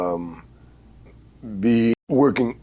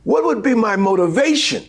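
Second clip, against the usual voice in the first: higher, halting, earnest query; young actor's question; 12 semitones higher than usual. Retold or imitated. Young actor asking director about motivation, higher and hesitant. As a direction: stammer it up, eager to understand. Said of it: "So I said".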